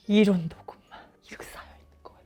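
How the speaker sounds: dramatic breath-only whisper; shocked whisper. Acted. Lawyer revealing the pile of recordings, aghast whisper. Hushed shock after gasp.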